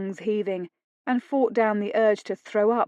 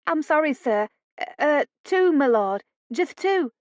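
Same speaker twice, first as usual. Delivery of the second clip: higher, stammering and scared; frightened maid; 7 semitones higher than usual. A narrator's reading. Maid to angry lord, high and frightened. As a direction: teeth chattering with fear. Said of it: "Her teeth were chattering".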